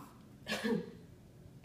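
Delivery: light cough shown to the patient; therapist's demonstration cough; demo cough. Shown as a demonstration. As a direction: model a gentle cough. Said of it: "you're gonna cough".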